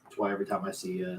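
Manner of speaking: ordinary delivery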